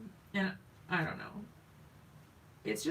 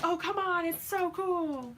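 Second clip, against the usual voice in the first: pleading excitement; 10 semitones higher, 3 dB louder than usual. Retold or imitated. Wife urges unimpressed husband to share her excitement, excited pleading. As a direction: coax him to share the thrill. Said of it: "he doesn't understand my excitement half the time".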